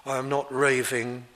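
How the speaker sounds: composed, courteous address to a superior; mild, measured politeness; polite and calm. Retold or imitated. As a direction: answer respectfully, without any heat. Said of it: "He says it very politely".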